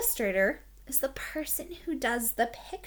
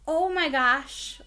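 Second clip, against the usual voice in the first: mock gasp; 5 semitones higher, 5 dB louder, slower than usual. Shown as a demonstration. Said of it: "That's like saying".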